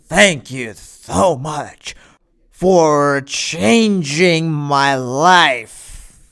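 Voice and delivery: very slow, drawn-out gushing thanks; mocking the rival's syrupy speech, dragged out very slowly; Cody Rhodes impression. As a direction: stretch every word like an over-grateful hero. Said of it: "do a Cody Rhodes impression".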